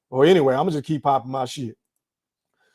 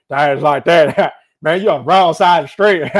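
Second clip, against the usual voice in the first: laughing mock voice; 5 dB louder than usual. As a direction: laugh through a teasing jab. Mocking someone with laughter.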